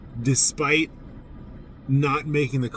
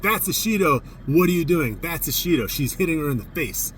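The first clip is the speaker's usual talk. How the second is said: yelling at the ref; 4 semitones higher than usual. Retold or imitated. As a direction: bark it at the ref like an outraged coach. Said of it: "stood up and yelled at the ref".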